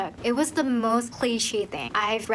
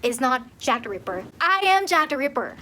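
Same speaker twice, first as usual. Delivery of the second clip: offended, pissed; 3 semitones higher than usual. Retold or imitated. Real Jack the Ripper protesting this book, pissed. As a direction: imitate an affronted killer, building at the end. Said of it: "He would be so pissed".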